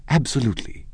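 high abrupt blurt; sudden exclamation. Acted. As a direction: blurt it out of nowhere. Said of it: "with such suddenness that I started".

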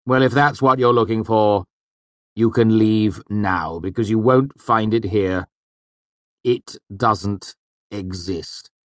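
high, loud, disgusted master, slowing down; a master sneering at naive students; disgusted Hemme. A narrator's reading. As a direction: dismiss their dreams with scorn.

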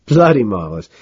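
amused English voice, rising high and loud; chuckling. A narrator's reading. Carnes chuckling over the message, amused English voice. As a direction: savour the joke with a chuckle. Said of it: "He keeps chuckling".

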